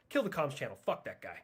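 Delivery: normal talking voice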